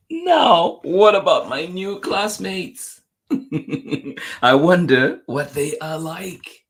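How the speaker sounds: high, loud, drawn-out storybook question; excited wondering. A narrator's reading. Reader voicing a child before meeting classmates, excited wondering. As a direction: launch in high and loud, stretching each phrase.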